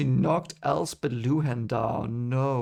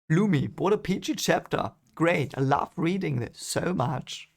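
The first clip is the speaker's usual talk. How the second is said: sarcastic; 4 semitones higher than usual. Real, not acted. Sarcasm about a grim chapter.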